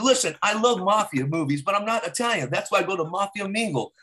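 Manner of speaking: climbing into a high, excited slogan; mock advert testimonial. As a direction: pitch it like a cheesy commercial. Spoofs a Mafia Mingle advert.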